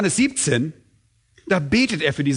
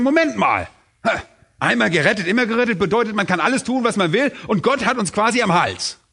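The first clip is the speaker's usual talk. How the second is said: lightly acted alarmed objection, pitched higher; mock nervous objector; 5 semitones higher than usual. Preacher imitating nervous people who object to eternal security, mildly agitated. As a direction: voice a worried sceptic breaking in. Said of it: "was manche Leute sehr nervös macht".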